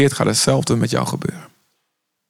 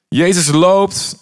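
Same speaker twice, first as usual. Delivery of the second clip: drawn out and slow, picturing the walk; slow dramatic pause; 6 semitones higher, much slower than usual. A narrator's reading. Preacher slowing down to picture Jesus walking. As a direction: let each word hang in the air.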